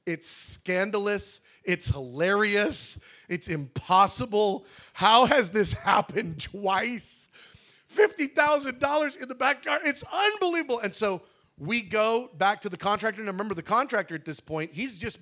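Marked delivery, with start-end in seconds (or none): 0.1-10.8 slow, rising higher to a very high, louder disbelief; imitating amazement. Friends reacting to the money, mock amazement. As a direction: stretch each word in mock amazement. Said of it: "now everybody's like".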